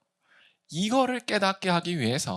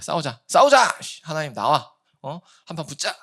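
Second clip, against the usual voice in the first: mock challenge, loud on the second 싸우자; picking a fight; 4 dB louder than usual. Preacher acts out man daring God to fight. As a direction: taunt God to come out and fight. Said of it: "이런 거예요".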